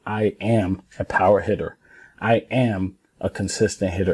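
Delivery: firm, measured affirmation; with conviction. Shown as a demonstration. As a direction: say it like you mean it. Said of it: "you gotta say it like I told you".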